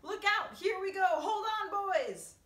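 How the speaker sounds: high, sustained excited yell; shouted warning. A narrator's reading. Warning the boys as the peach rises, shouting. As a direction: holler to brace everyone.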